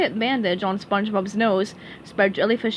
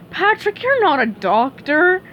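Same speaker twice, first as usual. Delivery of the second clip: a hint of a higher, brisk squirrel; lightly voiced Texan squirrel; Sandy voice; 6 semitones higher, 5 dB louder than usual. Sandy scolding Patrick on the phone, lightly voiced.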